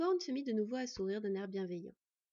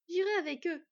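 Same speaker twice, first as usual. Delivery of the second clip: simple declaration; 7 semitones higher, 6 dB louder than usual. A narrator's reading. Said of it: "déclara-t-elle simplement".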